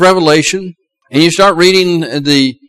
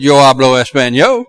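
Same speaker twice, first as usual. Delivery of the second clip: Spanish spoken with a light Southern US accent; 5 semitones lower than usual. Shown as a demonstration. Preacher showing off his Spanish with a Southern US accent. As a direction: say the Spanish with a bit of a Southern US twang. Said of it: "A little bit of a southern accent".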